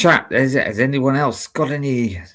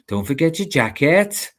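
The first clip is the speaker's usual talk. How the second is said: higher-pitched Welsh lilt; Welsh accent; 5 semitones higher than usual. Shown as a demonstration. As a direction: warm up into Welsh, lifting the end. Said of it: "certain sayings that will go through my head".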